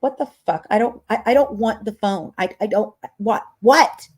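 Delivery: retold freak-out on the phone. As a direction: sputter in confused alarm, climbing high. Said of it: "I'm, like, losing my shit".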